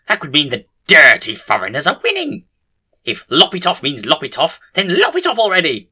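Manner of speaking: loud, high ranting outburst; screaming rant. A narrator's reading. Bin doctor brandishing a chainsaw at the team, screamed rant. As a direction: rant at full tilt, peaking at the end. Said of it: "he screams".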